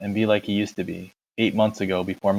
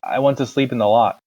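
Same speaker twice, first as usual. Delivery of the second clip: stammering; 3 dB louder than usual. Acted. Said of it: "when I stammered".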